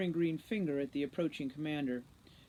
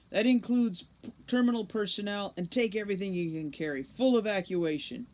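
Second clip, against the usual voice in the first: 1 firm loud order; 4 semitones higher, 5 dB louder than usual. A narrator's reading. Root orders evacuation.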